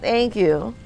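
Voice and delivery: talking through a mouthful; slow, words round a bite; mouth full. Acted. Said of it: "He's talking with his mouth full".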